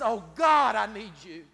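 loud Oh God, then pleading; crying out. Retold or imitated. Preacher voicing David crying out in the cave, loud. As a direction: cry out to God for help. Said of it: "crying out with his voice".

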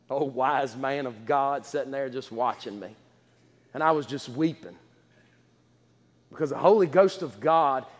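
low, soft, emotional telling; hushed testimony. Real, not acted. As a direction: speak it softly, close to tears. Emotional testimony, softly told.

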